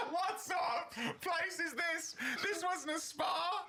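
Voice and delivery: high, very slow squeaky mock woman voice; mock beautician. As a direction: squeak it out slowly, lampooning the beautician. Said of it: "And she was going".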